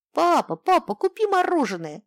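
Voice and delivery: put-on high, loud child's shout; little girl yelling at her dad for ice cream. A narrator's reading. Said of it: "заорала вдруг Юлечка".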